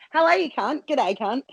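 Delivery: lightly hammed-up Aussie accent; a touch of broad Australian; mock Australian greeting. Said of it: "started talking to me in Australia".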